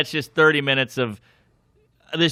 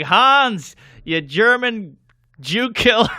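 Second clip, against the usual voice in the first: roast jab; 7 semitones higher, 4 dB louder, slower than usual. Retold or imitated. Roasting a guest.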